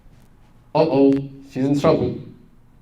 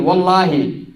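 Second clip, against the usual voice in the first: firm, slightly raised vow; a hint of a resolute daughter; determined daughter; 4 semitones higher, 4 dB louder than usual. Daughter refusing her mother, firm vow. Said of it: "her daughter said".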